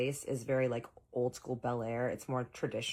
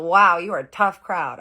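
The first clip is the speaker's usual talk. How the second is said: mock exasperation; 5 semitones higher, 14 dB louder than usual. Boyfriend reacting to her teasing.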